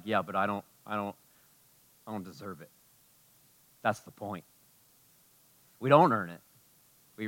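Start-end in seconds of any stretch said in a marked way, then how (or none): 0.0-2.7 mock doubtful listener. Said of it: "You'd be like".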